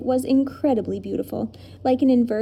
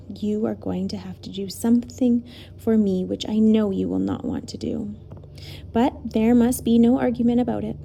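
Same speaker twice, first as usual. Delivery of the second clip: firm. Acted. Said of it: "he said firmly".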